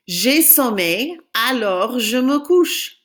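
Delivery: J'ai sommeil said slowly, clearly; teacher models a sentence; slow model for repeating. Shown as a demonstration. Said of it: "Say it after me".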